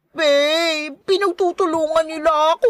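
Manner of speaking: tearful, put-on whine to her babe; whiny fake crying. Glenda complains to her babe that they gang up on her, whiny fake crying. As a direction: play up the tears for sympathy.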